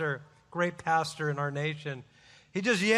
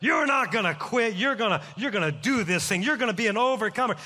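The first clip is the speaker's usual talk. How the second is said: retold yell; 2 semitones higher, faster than usual. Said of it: "this guy's yelling on the bus".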